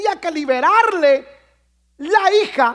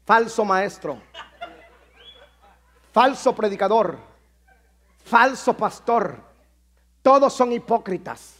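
mock complaint post; 5 semitones lower than usual. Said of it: "pusiera en Facebook".

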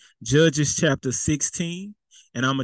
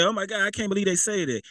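higher, quick scandalized quote; mock shock; 5 semitones higher, faster than usual. Preacher imitating a shocked listener to the congregation, mock shock. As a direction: act out a hurried, shocked reaction.

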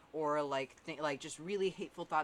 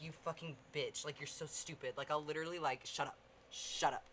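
aggressive self-hushing; 3 semitones lower, 7 dB quieter than usual. Retold or imitated. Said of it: "aggressive about it".

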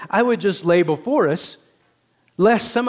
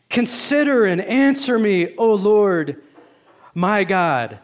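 crying out; 2 semitones higher, slower than usual. Retold or imitated. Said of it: "This is what he cries out".

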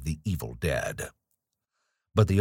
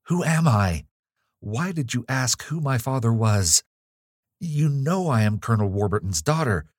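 urgent questions; 5 semitones higher than usual. Acted. Evelyn pressing the nurse for answers.

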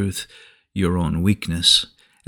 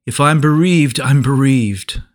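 higher, louder lament, mildly acted; Jacob's retold cry; 4 semitones higher, 4 dB louder than usual. Preacher quotes a bereaved patriarch to listeners, crying out mildly. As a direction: quote a father's cry of grief with raised voice. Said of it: "Jacob cried".

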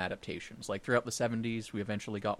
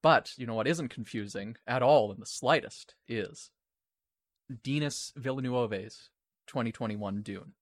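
dry, deadpan sarcasm; sarcastic; 3 dB louder than usual. Acted. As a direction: say it with an ironic edge. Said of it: "I'm being completely sarcastic".

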